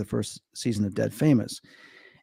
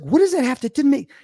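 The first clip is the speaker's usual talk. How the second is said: imitating Gail. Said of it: "She's like".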